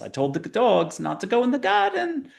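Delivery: high-pitched East Asian accent, put on. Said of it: "It's Asian accent".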